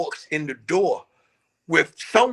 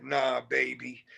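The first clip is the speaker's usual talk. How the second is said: slow, soft and suggestive; a slow, softer playful come-on; 6 dB quieter, slower than usual. Retold or imitated. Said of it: "being suggestive, playing around".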